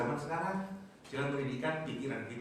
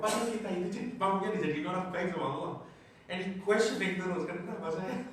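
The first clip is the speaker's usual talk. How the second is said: animated teasing; 7 semitones higher, 3 dB louder than usual. Real, not acted. Animated, mocking the complainer.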